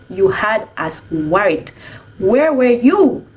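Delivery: slow, drawn-out worried question; a lightly voiced grandparent pleading, slowly; worried elder. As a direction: grandparent asking the lost child where she was, slow and worried. Grandparents scolding a lost child.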